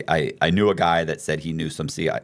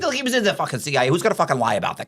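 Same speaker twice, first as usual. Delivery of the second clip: pitched-up, fast, exasperated rant; heated retold outburst; 8 semitones higher, faster than usual. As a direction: hammer it home like you can't believe him.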